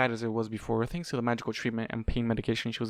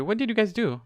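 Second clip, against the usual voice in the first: surprised; 10 semitones higher, 4 dB louder than usual. A narrator's reading. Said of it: "half shouted".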